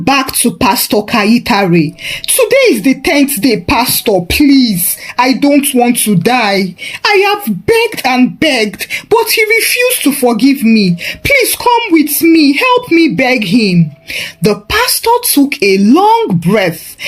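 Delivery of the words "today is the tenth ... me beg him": high, urgent begging with a shout; terrified mother pleading as time runs out; panicked plea. Acted. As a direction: beg the pastor, breaking into a cry for help. Mother begs the pastor again.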